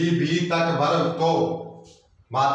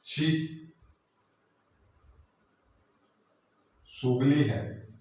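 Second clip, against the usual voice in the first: disgust; 4 dB quieter, much slower than usual. Shown as a demonstration. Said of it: "घृणा प्रकट कर रहे हैं".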